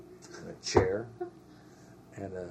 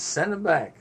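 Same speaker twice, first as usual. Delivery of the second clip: loud, high retold order; excited; 9 semitones higher, 10 dB louder than usual. Battalion wanting their barber back, excited. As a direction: demand it eagerly and loudly. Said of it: "they got all excited".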